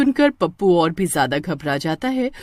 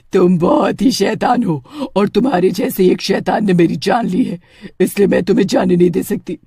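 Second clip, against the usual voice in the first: threatening witch. Acted. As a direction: threaten the boy like a vengeful witch. Witch threatens second boy.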